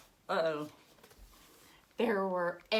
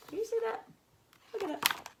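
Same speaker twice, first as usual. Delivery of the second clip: excited question; faster than usual. Acted. Pointing out broken egg.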